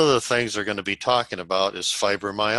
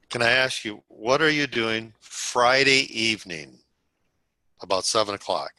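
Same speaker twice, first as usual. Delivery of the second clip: sense of importance. Shown as a demonstration. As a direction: give the question weight, lingering on the day. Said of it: "So it is important".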